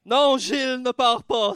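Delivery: high, loud desperate begging; pleading. Acted. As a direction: beg him not to leave. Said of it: "se jette à ses pieds et le supplie".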